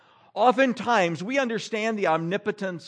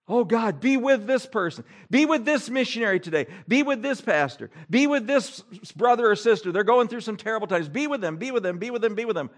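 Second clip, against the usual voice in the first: mock pleading prayer; 5 semitones higher than usual. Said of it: "Why would we ever pray that".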